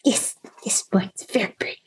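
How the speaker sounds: high breathy little critter whisper; tiny creature whispering praise. Acted.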